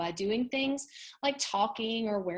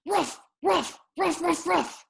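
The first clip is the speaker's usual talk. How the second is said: high yapping barks; loud high woof woof; dog barking; 9 semitones higher, 4 dB louder than usual. Acted. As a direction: bark it like a grumpy dog. Teacher reads barking dog.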